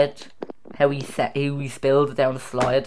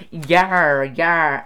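lightly voiced pirate growl of "yar"; 3 semitones higher, 4 dB louder than usual. Quizmaster offering pirate-talk answer, lightly voiced pirate. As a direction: give a hint of pirate. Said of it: "to a pirate".

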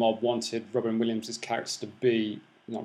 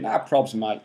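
casual mock-Aussie voice; Australian accent; 4 semitones lower, slower than usual. Imagining the villain as Australian, casual Aussie accent.

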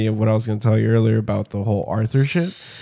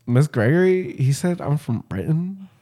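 put-on higher, softening child's complaint to teacher; tattling schoolkid; 4 semitones higher, 4 dB quieter than usual. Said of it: "he was a snitch".

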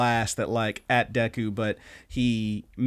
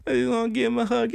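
high and gushing, a bit quicker at the end; doting gush. Pretend. Host gushing over crying Bakugo, high doting coo. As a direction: swoon over him like a doting parent. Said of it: "gushing over character".

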